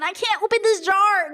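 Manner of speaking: put-on high, helpless girly voice; mocking a helpless woman; mock helpless girl. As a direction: play weak and cute. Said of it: "women just default to".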